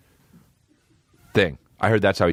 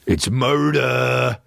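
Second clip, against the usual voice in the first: mock opponent; 3 semitones higher, much slower than usual. Mock opposing voice.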